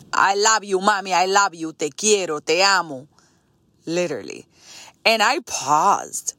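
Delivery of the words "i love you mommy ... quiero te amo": imitating mom's Spanish-accented English; mom's cute Spanish accent, sliding into Spanish. Mom hugging her daughter goodbye, cute Spanish accent. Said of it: "with her little cute accent".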